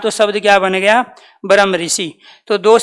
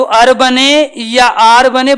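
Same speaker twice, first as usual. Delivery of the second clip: slow careful contrast; 2 semitones higher, much slower than usual. Shown as a demonstration. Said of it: "बेटे, वो मात्रा है।".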